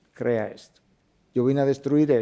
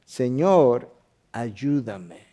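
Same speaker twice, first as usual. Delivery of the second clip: humble plea; 2 semitones lower, much slower than usual. Retold or imitated. Kneeling woman begs the Lord for help, humble plea. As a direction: beg from your knees. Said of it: "se postró ante él, diciendo".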